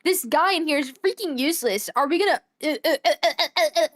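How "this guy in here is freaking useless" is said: frustrated outburst. Real, not acted. Streamer frustrated at the game.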